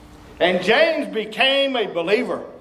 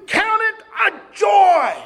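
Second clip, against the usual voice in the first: emphatic; 8 semitones higher, 4 dB louder, slower than usual. Real, not acted. Preacher climaxes.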